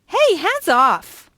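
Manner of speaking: high, loud, stretched-out order; sharp warning. Acted. Shopkeeper guarding the gift vouchers, sharp warning. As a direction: warn off a would-be grabber. Stopping him grabbing vouchers.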